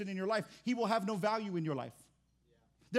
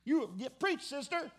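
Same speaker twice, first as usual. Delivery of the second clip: higher, louder hyped-up Martha cheering her sister on; Martha agreeing; 8 semitones higher, 4 dB louder, slower than usual. Acted. Martha backing Mary up in front of Jesus, higher and louder. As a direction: egg her sister on like a churchgoer shouting amen. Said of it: "Martha's like".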